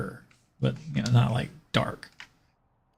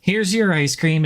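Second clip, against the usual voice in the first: higher, sing-song shop lady welcome; booming sing song welcome; 6 semitones higher than usual. Retold or imitated. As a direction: greet brightly like a shopkeeper. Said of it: "Where the lady was like".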